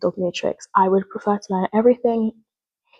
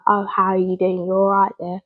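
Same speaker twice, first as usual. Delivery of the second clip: lightly put-on masculine accent; a hint of a blokey greeting voice. Shown as a demonstration. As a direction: play it slightly masculine. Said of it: "taking it masculine and be like".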